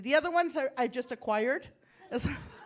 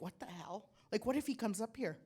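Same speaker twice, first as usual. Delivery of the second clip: hushed nervous thought; 3 semitones lower, 9 dB quieter than usual. Retold or imitated. Inner panic as he approaches.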